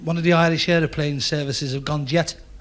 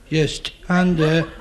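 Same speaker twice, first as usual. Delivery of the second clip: very slow stuttered "stand"; stuttering sergeant; much slower than usual. Retold or imitated. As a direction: drag "stand" out as if stuck. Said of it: "he stuttered very badly".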